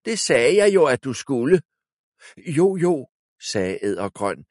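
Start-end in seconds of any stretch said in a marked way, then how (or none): 0.1-1.6 high, loud angry rebuke; scolding. A narrator's reading. Wizard scolding his servant. 2.4-3.1 high, loud eager yes; hasty agreement. A narrator's reading. Eddergrøn hastily agreeing.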